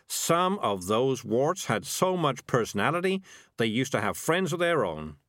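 slow, earnest cat laying it on; trying to sound sincere. Acted. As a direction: pour on mock sincerity, slowly. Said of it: "trying to look sincere".

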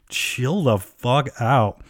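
drawn-out, slow mock exasperation; slow retold telling-off; exasperated retort. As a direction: imitate fed-up friends, stretching each word.

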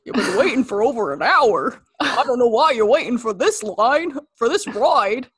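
lightly voiced goofy cartoon dog; mild mock Goofy rambling. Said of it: "talk like you're Goofy".

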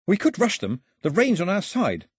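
ordinary delivery

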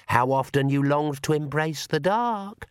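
very slow, eerie accusing voice; shadow voice. Acted. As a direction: drag out the accusation from the dark. Shadow voice tempts.

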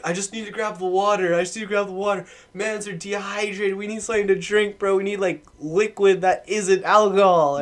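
imitating buddy. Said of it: "he's like".

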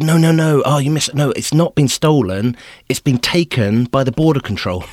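high, loud, flustered no no no; imitated panicked protest; frantic protest. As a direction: scramble to correct the guard. Frantic correction of official.

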